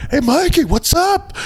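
very high, gushing fan greeting; excited hailing. Retold or imitated. Starstruck caterer hailing the bassist by the stage, high and excited. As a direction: call out in a hammed-up squeal.

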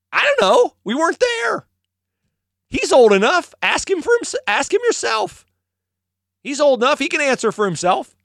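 very high-pitched, defensive protest; hammed-up parents dodging the question; panicky parents. Parents tell officials to ask their son, high and defensive. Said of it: "And the parents go".

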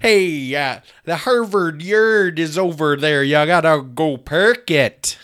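loud, broad mock Boston accent. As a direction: give directions as a hammed-up Bostonian. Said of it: "that's not a good Boston accent".

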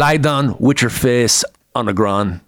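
put-on slow, accented Belgian action hero; Van Damme's thick Belgian accent; Van Damme impression. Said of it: "the best Van Damme impressions".

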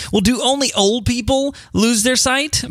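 a hint of a wondering kid; kid's question. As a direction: ask it like a curious child.

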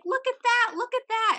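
high-pitched imitation of a pestering friend; mock teasing. Friend poking her mom in the stomach, high mock teasing.

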